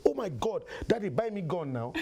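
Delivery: put-on high, excited kid begging daddy; pleading son. Son begging his father for a gun, excited.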